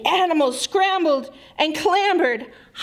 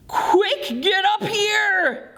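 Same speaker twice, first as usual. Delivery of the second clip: higher urgent call; urgent shout; 8 semitones higher, slower than usual. Acted. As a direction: shout to the cub to climb. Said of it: "growled Bear".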